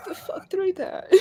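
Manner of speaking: unvoiced sneaking whisper. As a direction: hush it like you're creeping up. Sneaking in the fiction.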